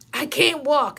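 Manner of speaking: high-pitched, insistent patient complaint; mock protest. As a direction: imitate a patient protesting his helplessness. Patient insisting he can't walk.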